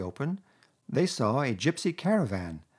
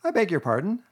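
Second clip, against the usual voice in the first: slowly; 8 semitones higher, 4 dB louder than usual. A narrator's reading. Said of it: "said the Rat slowly".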